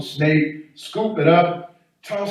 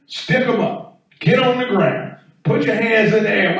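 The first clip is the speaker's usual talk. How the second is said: firm, raised-voice robber's orders; direct commands; 5 semitones higher than usual. Acted. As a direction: give clear, direct hold-up commands. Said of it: "make your commands direct".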